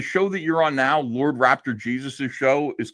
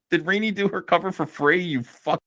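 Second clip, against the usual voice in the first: voice crack; 2 semitones higher than usual. Real, not acted. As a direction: let the voice crack. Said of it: "the voice crack".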